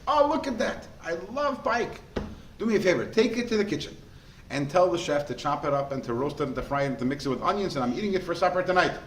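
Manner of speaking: a lightly voiced nobleman gushing over the fish; delighted nobleman. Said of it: "The Paritz".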